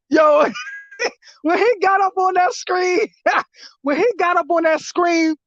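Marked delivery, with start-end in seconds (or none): 1.0-5.3 laughing while telling it; words squeezed out through laughter; real laughter. Real, not acted.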